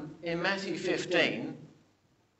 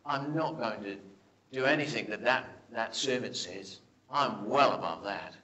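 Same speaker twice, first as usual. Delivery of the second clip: grumpy Naaman; 2 semitones lower than usual. Retold or imitated. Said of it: "Naaman got really grumpy".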